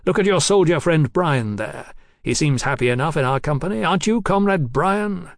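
lightly voiced cocky young lord; a hint of a swaggering young marquis; young radical aristocrat.

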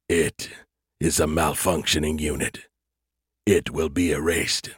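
low, menacing alien entity; cold alien voice. Acted. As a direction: speak as a cold superior alien. Alien creators speak.

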